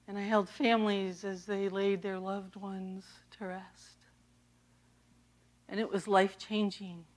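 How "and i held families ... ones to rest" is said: hushed whisper of grief; a real whisper at the graveside memory. Real, not acted. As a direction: barely voice it, a solemn whisper. Solemn memory of the dying in Haiti.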